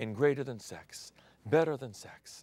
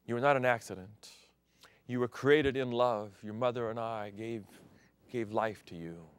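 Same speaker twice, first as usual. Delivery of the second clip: tender father. Retold or imitated. Father telling his youngest son he is proud. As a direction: speak gently as a proud father.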